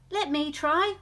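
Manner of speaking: high, loud, eager whoop. A narrator's reading. Douglas to the owl, whooping eagerly. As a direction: burst out keen to have a go. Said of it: "whooped Douglas".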